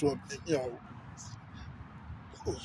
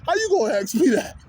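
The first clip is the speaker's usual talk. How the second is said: laughing disbelief; 11 semitones higher than usual. Real, not acted. Laughing at homie's question.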